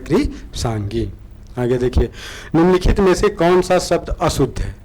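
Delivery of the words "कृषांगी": कृषांगी said slowly and softly, each syllable drawn out; teacher sounding out कृषांगी slowly; slow soft demo. Shown as a demonstration. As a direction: spell out कृषांगी slowly and quietly. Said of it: "ऐसे ही लिखा जाता है".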